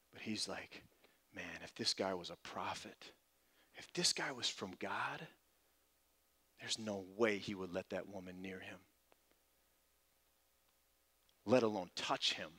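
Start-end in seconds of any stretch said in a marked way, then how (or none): 1.3-12.5 softer inner voice, low and private; muttering to himself. Retold or imitated. Simon judging the woman to himself, softly. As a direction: keep it inside, barely aloud. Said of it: "says it under his breath".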